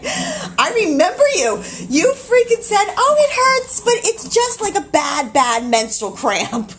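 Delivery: high, loud mimicry of a friend; mocking accusation. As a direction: throw the words back in exaggerated mockery. Mockingly quotes friend's false reassurance.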